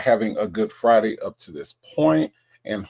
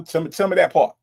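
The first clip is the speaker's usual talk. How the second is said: louder, higher hype on that; hyped; 4 semitones higher, 4 dB louder, faster than usual. Real, not acted. Hyping up a chatter's flames, loud and eager. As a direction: cheer the chatter on.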